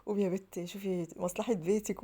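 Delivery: drawn-out quoted catchphrase, slow with rising end; Fifi Abdo line. Retold or imitated. Wife quoting a famous line to herself, slow drawn-out. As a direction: stretch it slowly like a famous actress's line. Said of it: "على رأي فيفي عبده".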